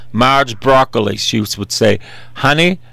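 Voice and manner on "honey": lilting Texan "honey", pitched up; higher Texan drawl with a rising end; Texan accent. Retold or imitated. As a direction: imitate a Texan woman, lightly. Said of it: "with her Texan accent".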